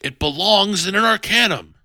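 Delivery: high, loud mock-noble voice; mock scholarly player. Player mocking a rival who wants it for the Arcanum, lofty. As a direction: pitch it up, a bit loud and lofty. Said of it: "one of you is like".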